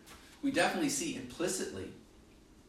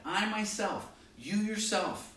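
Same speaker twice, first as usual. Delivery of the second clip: "I myself, you yourself" punched firmly, pitched up; higher, emphatic quote of "I myself, you yourself"; 4 semitones higher than usual. Retold or imitated. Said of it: "And he's emphatic".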